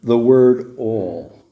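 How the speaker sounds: slow, weighty "the word all"; slow emphasis landing on "all"; emphatic. Real, not acted. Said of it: "this is what's emphasized here".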